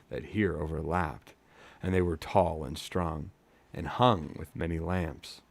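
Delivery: measured storyteller's reading with pauses; story narration. A narrator's reading. Reading a fantasy novel to live listeners, measured narration. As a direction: read it like an audiobook.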